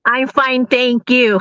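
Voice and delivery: sing-song stock reply; rote polite reply. Acted. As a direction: recite it like a drilled greeting. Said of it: "Di ba ganun tayo?".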